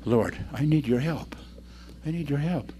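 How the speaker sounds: lightly acted, subdued plea to God; prayer. Showing a believer praying in a crisis, subdued plea. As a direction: plead gently, softening at the end. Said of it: "kneel down and pray and say".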